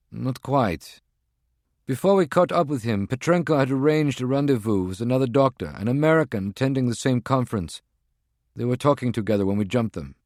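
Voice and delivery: a tense field agent reporting in; agent's voice. Acted. Voices Prague One on phone.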